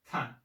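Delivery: "kan" short with a firm puff on the k; strong syllable. Shown as a demonstration. Teacher combines the sounds for learners, strong syllable. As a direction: say "kan" crisply with strong aspiration.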